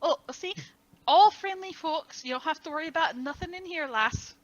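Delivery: light Irish lilt; friendly Irish accent with lass. Acted. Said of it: "The Irish is emerging".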